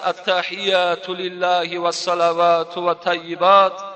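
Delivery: slow, drawn-out Arabic recitation; measured, sustained devotional intoning; prayer recitation. Retold or imitated. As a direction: stretch the syllables as if beginning the prayer. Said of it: "حضرت سر کرد".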